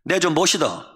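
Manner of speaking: short Gyeongsang-accented phrase; Gyeongsang dialect. Shown as a demonstration. Preacher compares regional phrases, in Gyeongsang dialect. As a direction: say it like a Gyeongsang local. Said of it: "경상도 말은 뭐라 그래요".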